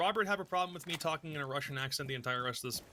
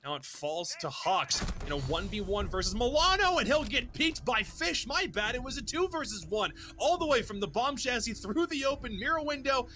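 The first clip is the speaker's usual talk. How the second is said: esports play-by-play; 2 semitones higher than usual. Acted. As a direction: narrate the fight as it unfolds. Live play-by-play casting.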